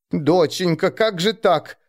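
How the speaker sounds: a touch of dismay at her daughter's words; mother aghast at her daughter; horrified mother. A narrator's reading. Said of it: "ужаснулась мать".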